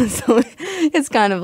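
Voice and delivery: real laugh running into the words. Real, not acted. Student laughing off her joke about her teacher, amused.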